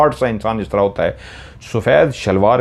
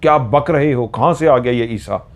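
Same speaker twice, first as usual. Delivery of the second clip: mild retold roar; 3 semitones higher than usual. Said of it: "जिस तरह वो धाड़ रहा था".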